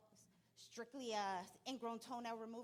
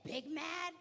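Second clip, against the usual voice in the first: players asking; 8 semitones higher, 7 dB louder than usual. Retold or imitated. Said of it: "They said".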